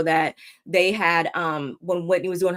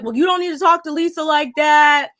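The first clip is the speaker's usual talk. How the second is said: retold angry retort; 7 semitones higher, 6 dB louder than usual. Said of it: "John's like".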